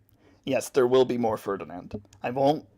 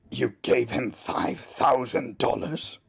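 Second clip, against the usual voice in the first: slow, disbelieving character line; voice line from part two; 4 dB louder, slower than usual. Acted. Asked for a part two voice line, slow and disbelieving. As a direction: drag out the disbelief like a shocked character. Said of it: "Do one of the voice lines in part two".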